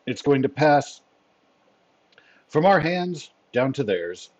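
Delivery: lightly voiced commander, measured and deliberate; a hint of a formal chief giving orders; Fury. Commander debriefs his agents after the hostage rescue, lightly voiced.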